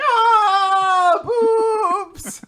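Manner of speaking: high loud yelp; excited yelp. Retold or imitated. Boy blurting to her, high and loud. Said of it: "Gakuro being like".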